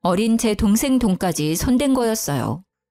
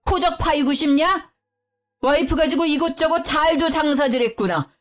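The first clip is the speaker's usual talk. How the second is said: higher-pitched scolding, mock shout rather than full yell; lightly voiced angry patriarch; angry father-in-law; 5 semitones higher than usual. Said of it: "소리를 빽 지르더군요".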